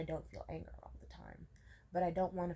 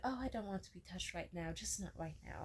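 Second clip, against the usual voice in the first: softly and gently, easing off at the end; gentle refusal; 4 dB quieter than usual. Retold or imitated. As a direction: set a calm boundary, quietly. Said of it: "I just gently said".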